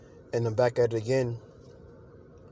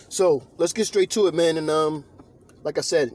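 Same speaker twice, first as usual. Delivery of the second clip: fired up; 4 semitones higher, 3 dB louder than usual. Acted. Switches into preaching.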